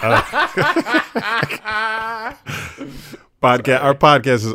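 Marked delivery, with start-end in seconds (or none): 0.3-3.2 long, high-pitched burst of laughter; real high belly laugh. Real, not acted. Cracking up at moaning joke.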